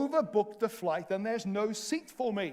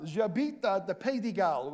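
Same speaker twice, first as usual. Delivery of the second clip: "J'habite à the Pays de Galles" in broken beginner French; schoolboy French; 2 semitones lower than usual. Shown as a demonstration. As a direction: mix the French with English. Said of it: "All I know how to say is".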